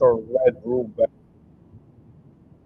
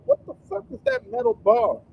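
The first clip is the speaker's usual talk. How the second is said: much higher, mock-panicked veteran; hammed-up high panic; panicked soldier. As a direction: squeal it like a spooked soldier. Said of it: "soldier's like".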